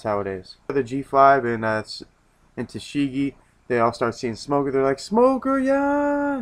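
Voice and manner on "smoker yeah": very high, drawn-out mock squeal; excited calling out. Subordinates spotting Smoker, excited falsetto cheer. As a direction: imitate a gushing crowd in falsetto.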